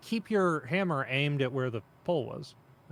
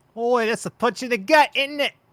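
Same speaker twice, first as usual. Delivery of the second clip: very high, very loud, shrill cartoonish Australian accent; 9 semitones higher, 9 dB louder than usual. Correcting how someone sounds, redoing the line in a Simpsons-style Australian accent. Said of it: "You sound like the Simpsons episode where they go to Australia".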